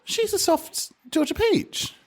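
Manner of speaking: slow high Southern drawl; Southern belle accent. Pretend.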